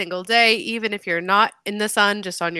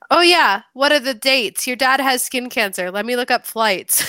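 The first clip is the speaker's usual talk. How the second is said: breezy casual; 3 semitones higher than usual. Retold or imitated. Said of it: "as casual as the day is long".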